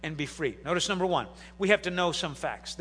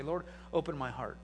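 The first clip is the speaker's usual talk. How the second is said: low, hushed prayer; prayerful plea; 6 semitones lower, 11 dB quieter than usual. Acted. Preacher modelling a prayer for listeners, hushed. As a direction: pray it softly and low.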